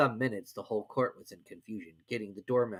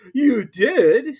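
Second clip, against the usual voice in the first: high, loud accusation; high, loud Hatter; insistent Hatter; 14 semitones higher, 11 dB louder than usual. A narrator's reading. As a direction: insist against the Hare. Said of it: "said the Hatter".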